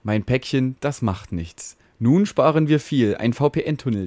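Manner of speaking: lightly voiced fatherly router, calm and reassuring; a hint of a caring father in a mock ballad; soothing router. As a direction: comfort the frightened little packet in rhyme.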